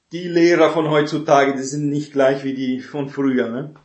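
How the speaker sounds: a hint of a loud, dismissive father; grumbling father. Father belittles his son's A by blaming the teachers, mildly loud and dismissive. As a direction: brush off the good grade with a grumble.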